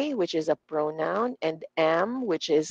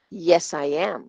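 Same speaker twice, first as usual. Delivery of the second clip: YES and AM stressed, "I" skimmed; "I" barely touched; 2 semitones lower than usual. Shown as a demonstration. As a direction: glide over "I" between strong "Yes" and "am". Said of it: "dinaplisan lang".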